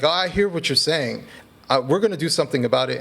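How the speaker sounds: mock an official's empty reassurance; feigned concern. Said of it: "the feigning, like".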